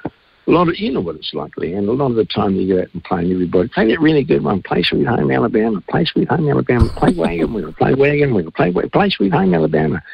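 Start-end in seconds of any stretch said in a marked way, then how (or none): 3.7-10.0 higher, pushy punters calling for songs; mimicking the punters shouting for songs; mock crowd requests. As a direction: imitate drunk pub crowd yelling requests.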